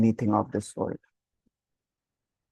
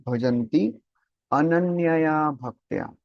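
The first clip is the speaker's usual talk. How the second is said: ananyaya stretched out slowly, set apart by a pause; pause, then dwell slowly on ananyaya; emphatic repetition; slower than usual. Shown as a demonstration. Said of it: "Prabhupada is emphasizing that word".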